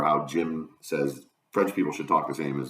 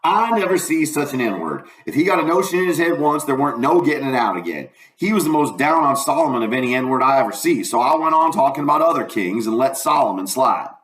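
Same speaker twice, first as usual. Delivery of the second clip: folksy Southern storytelling; lightly voiced dialect narrator; first-person dialect narration; 8 semitones higher, 6 dB louder than usual. A narrator's reading. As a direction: read it as a country boy's yarn.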